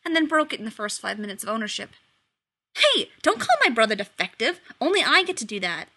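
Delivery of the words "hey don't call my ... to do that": sharp and loud, a touch higher; firm rebuke; snapping. Acted. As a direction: protective big brother snaps back. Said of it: "Dean snapped".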